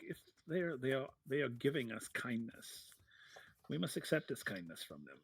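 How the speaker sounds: a hint of a soft, measured figure; lightly voiced Elira. Elira urging the mayor to accept help, lightly measured. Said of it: "Elira is very much like".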